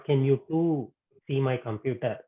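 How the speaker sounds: "you two" picked out in the question; stress on YOU TWO. Shown as a demonstration. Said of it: "There the emphasis is on karta".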